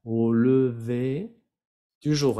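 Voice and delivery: "Au lever" slow with silent R, "du jour" with R sounded; French pronunciation demo. Shown as a demonstration. Teacher contrasts the two Rs, "lever" silent, "jour" sounded. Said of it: "la R no se pronuncia y aquí sí".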